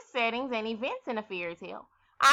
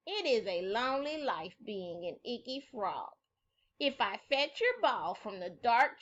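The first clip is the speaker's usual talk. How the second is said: gentle frog voice; 4 dB quieter than usual. Acted. Frog asking for friendship.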